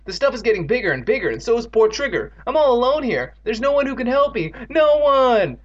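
high, mounting despair; desperate wail. Acted. Evan tells Andy nobody can help, wailing. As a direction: build to a loud, high cry. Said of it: "Evan wailed".

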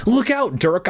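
high urgent cry; frantic warning. A narrator's reading. Bee warning the boy in his body, frantic.

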